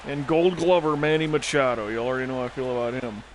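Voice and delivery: talking while crunching coffee beans. Real, not acted. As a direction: mouth full of crunching beans. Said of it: "Sorry if I'm crunching and snacking".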